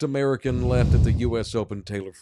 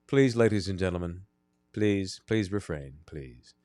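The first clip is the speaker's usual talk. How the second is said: imitating the umpire; 6 semitones lower, 3 dB quieter than usual. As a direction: plead with the crowd like a tired umpire. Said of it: "the ref's like".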